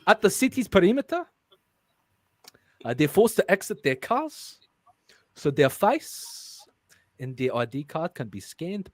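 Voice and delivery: halting South African accent attempt. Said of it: "I can't do it when I'm reading".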